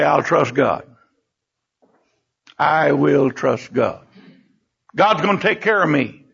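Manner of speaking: measured, settled declaration of faith; calm confidence. Acted. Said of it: "Do you have that confidence".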